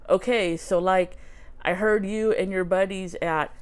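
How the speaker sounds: lightly attempted Canadian hoser accent; Doug McKenzie. Reading an autograph to viewers, light Canadian hoser accent. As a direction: read it out with a hint of Canadian hoser. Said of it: "my Canadian hoser accent".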